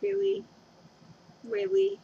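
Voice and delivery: a hammed-up disbelieving Really; mock exasperated whine. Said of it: "I'm like".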